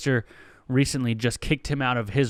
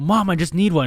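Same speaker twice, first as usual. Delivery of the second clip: put-on pleading teen; 5 semitones higher, 6 dB louder than usual. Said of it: "And he's like".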